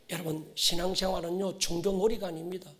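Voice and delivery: ordinary delivery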